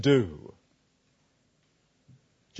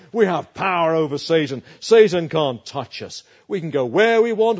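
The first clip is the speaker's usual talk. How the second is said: mock boasting; 4 dB louder than usual. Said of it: "They say".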